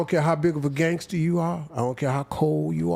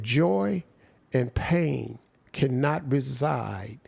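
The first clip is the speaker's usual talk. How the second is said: slow preaching delivery; much slower than usual. Retold or imitated. Retelling minister's sermon line.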